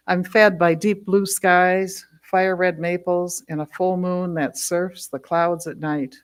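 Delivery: measured poem recital with weighted phrases; poetry reading. Acted. Poet reads a palindrome poem from their book, measured recital. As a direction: read each line as verse, pausing between images.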